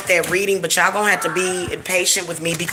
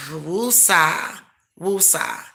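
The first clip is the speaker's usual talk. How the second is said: calming woosah; much slower than usual. Real, not acted. Irritated after Instacart hold, soothing herself with woosah. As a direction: breathe it out to settle yourself. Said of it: "I'm gonna try to get myself calmed down".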